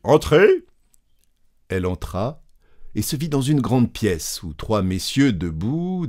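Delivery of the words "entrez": higher and much louder call; clear cry. Acted. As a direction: call out from behind the door. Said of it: "une voix claire cria".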